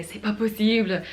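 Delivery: mildly mimicked frustrated French speaker; imitated French frustration. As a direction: quote a fed-up French person, lightly. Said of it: "a very frustrated French person say".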